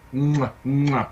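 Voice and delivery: air kiss. Retold or imitated. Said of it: "So I did the Hollywood thing".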